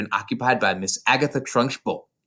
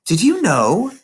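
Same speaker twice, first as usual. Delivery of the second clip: put-on lightly raised little girl voice; Matilda's voice; 9 semitones higher, 5 dB louder than usual. A narrator's reading. Narrator voicing young Matilda to her teacher, small girl voice. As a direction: voice a bright, earnest young girl.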